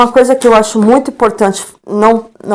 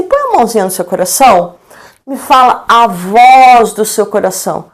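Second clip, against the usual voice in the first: put-on tender coaxing to a child. Shown as a demonstration. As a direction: coax the child gently to speak from the heart. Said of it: "fala assim".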